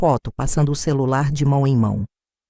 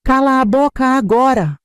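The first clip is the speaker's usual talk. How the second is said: furious yell; 7 semitones higher, 4 dB louder than usual. A narrator's reading. Bruno still yelling at wife.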